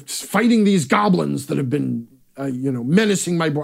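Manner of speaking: lightly voiced warlord; a hint of a lord addressing his heroes; lord in his hall. Shown as a demonstration. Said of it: "the lord in his hall".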